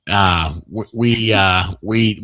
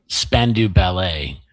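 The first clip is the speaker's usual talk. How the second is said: savouring the name; 4 semitones lower, much slower than usual. Real, not acted. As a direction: say the band's name slowly, relishing it. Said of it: "I get to say it".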